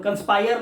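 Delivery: कंस्पायर with the final r sounded; wrong conspire. Shown as a demonstration. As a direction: say कंस्पायर ending hard on r. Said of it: "मतलब कंस्पायर नहीं पढ़ेंगे". (कंस्पायर र के साथ, गलत)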